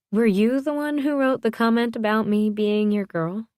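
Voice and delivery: high-pitched, probing question; curious question. A narrator's reading. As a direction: ask it with the pitch lifted. She questions him about the comment.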